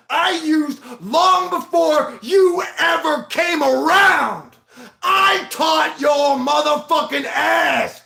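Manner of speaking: real furious outburst at younger rivals; angry rant. Real, not acted. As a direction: yell it at the rivals who copied you. Ranting at rival YouTubers.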